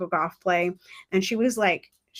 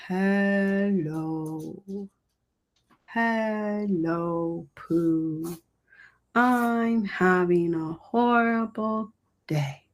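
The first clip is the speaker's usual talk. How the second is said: sad hello; much slower than usual. Shown as a demonstration. Coach demonstrating a sad hello to seminar, slow and mopey. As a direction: drag out each hello like a gloomy donkey. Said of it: "You could have a sad".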